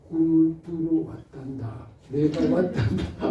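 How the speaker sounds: lightly voiced God, slow and unhurried; a hint of a fatherly God, speaking slowly; gentle God speaking. Preacher voicing God telling Moses he came, slow and gentle.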